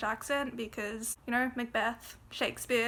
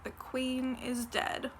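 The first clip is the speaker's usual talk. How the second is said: quoted stage line; slower than usual. Retold or imitated. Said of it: "His line is".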